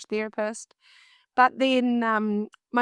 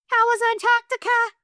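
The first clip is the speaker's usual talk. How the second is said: much higher and louder, a nervous startled squeak; freaked-out blurt; 11 semitones higher, 5 dB louder than usual. Retold or imitated. Opening the door to the prince, a nervous high blurt. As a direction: blurt it out in a panic. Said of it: "I just totally freaked out".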